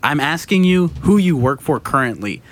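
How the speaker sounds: retold insistence on "currently"; insistent questioning.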